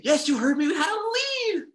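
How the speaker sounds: high, loud disbelieving yell; excited shout. Real, not acted. Podcaster yelling to fans about the halftime lead. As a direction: shout it like you can't believe it.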